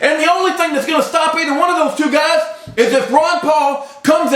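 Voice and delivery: heated rant, real agitation; worked-up yelling. Real, not acted. Vlogger urging viewers to look up Joseph Smith, worked-up yelling. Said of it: "Here I am yelling".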